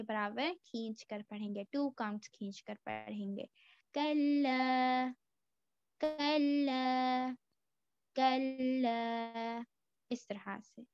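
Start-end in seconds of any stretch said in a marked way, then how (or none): 3.9-9.6 कल्ला with the lam doubled and held, slowly. Shown as a demonstration. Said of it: "लाम के ऊपर शद्दा... दो बार पढ़ेंगे". (कल्ला में लाम दो बार, धीरे)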